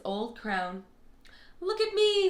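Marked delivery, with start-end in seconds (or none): 1.6-2.3 high, bright boast of a little goblin; a little goblin preening, pitched high; proud goblin. Acted. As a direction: show off the crown, pitched up. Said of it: "said Goblin".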